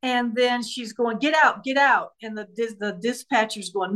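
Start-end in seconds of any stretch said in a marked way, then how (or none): 1.2-2.1 retold yell. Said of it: "She's just yelling".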